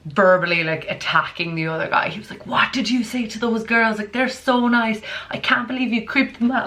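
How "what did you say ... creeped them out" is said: lightly voiced offended guy; a hint of an indignant lad; imitating an indignant guy. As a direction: scold his friend for creeping them out. Guy scolding his friend.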